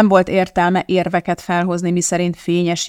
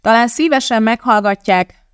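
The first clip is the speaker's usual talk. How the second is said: calling out; 6 semitones higher, 5 dB louder than usual. Acted. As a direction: call out above the noise. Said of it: "kiabálta Elizabeth".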